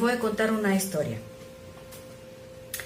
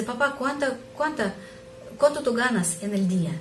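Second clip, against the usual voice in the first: put-on child's voice; 4 semitones higher than usual.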